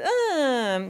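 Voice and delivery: high, drawn-out "aah"; imitated movement noise. Dancer re-enacts the move that hurt her back, high drawn-out cry. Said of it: "eu fiz assim um movimento".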